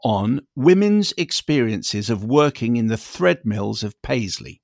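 a listener email read out on air, measured and deliberate; email read aloud. Acted. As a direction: read the listener's letter out carefully.

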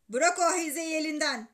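loud, stern father's command; shouted order. A narrator's reading. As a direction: order the child off the phone. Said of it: "diye bağırdı babam". (bağırarak emir verme)

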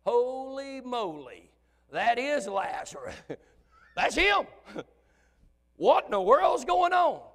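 high, slow, astonished gasping voice; wide-eyed onlooker losing his breath; amazed onlooker. Retold or imitated. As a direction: gape at a dead man walking. Unbelievers witnessing Lazarus raised.

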